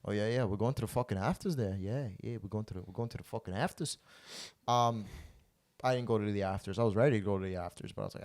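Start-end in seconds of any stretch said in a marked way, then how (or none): 0.0-4.0 rough attempt at an Irish accent; badly imitated Irish lad, repeating himself. Irish friend announcing afters, badly faked Irish accent. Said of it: "it's my Irish accent".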